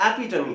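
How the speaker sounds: एपिटमी as e-PI-tuh-mee, four syllables; correct pronunciation. Shown as a demonstration. Teacher correcting students, एपिटमी ending in "tuh-mee". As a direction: sound the final "mee" in एपिटमी. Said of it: "Again बोल रहा हूं".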